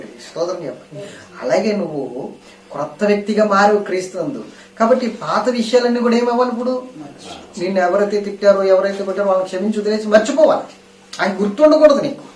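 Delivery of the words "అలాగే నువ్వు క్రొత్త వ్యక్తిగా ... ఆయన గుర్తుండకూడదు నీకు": higher and louder, fervent exhortation; full-force preaching. Acted. Pastor urging listeners to forgive, preaching at full force. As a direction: preach it hard, rising to a cry.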